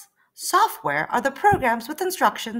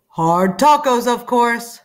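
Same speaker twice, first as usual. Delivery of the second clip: louder, slow triumphant answer; excited reveal; 7 dB louder, slower than usual. Acted. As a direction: announce the answer with delight. Reveal after gasp.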